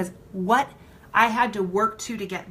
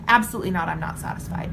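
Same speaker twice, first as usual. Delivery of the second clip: emphatic answer; 4 semitones lower, faster than usual. Shown as a demonstration. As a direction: punch "Absolutely" out with force, then settle on "I'm not satisfied". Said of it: "Your answer every single time should be".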